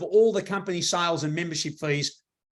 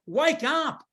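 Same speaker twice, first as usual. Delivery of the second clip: raised-pitch rousing cry; mock wake-up call; 8 semitones higher than usual. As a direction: shake them awake with a high, falling call. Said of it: "shake everybody up and say".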